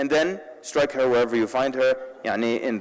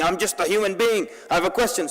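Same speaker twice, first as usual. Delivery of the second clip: higher-pitched imitation of an indignant outburst; mock scream; 4 semitones higher than usual. Retelling a brother's outburst at a press conference, mock scream. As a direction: imitate a man protesting, only mildly raised. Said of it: "He started screaming".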